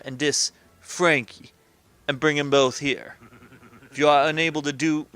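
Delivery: lightly voiced New York don explaining a job; measured gangster boss making a request; a hint of wise-guy accent; mob boss.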